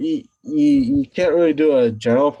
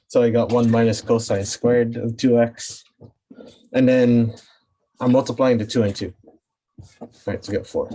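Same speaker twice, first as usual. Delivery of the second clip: panting between words after the stairs; winded, talking through short breaths. Real, not acted. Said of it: "I'm, like, catching my breath".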